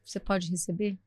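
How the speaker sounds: softly voiced kind stranger; gentle offer. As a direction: offer it quietly and tenderly. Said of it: "Ela olhou pra mim e falou".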